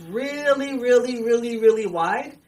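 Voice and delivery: "really" repeated high and loud. Acted. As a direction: stretch the first "really", then pile on each "really".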